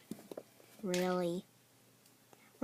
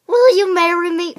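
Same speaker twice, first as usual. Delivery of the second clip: proposing marriage; 2 semitones higher, 10 dB louder, faster than usual. Acted. Kid proposes to a friend.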